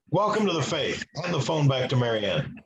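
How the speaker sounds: a hint of a hard-of-hearing priest calling down the line; a mock priest who talks loud, not really loud; imitating a loud priest. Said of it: "So he talks really loud".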